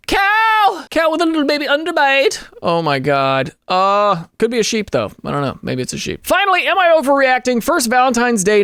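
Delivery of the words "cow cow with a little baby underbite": high-pitched gushing squeal of words; thrilled, high animal-lover voice; delighted exclamation. Real, not acted. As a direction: coo excitedly in a high voice. Delighted at seeing an animal picture.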